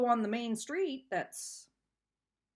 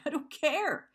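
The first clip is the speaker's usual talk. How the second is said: real upset; 5 semitones higher than usual. Real, not acted. Venting to viewers about the ex, upset insistence. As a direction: push it out, close to tears. Breaking down over ex.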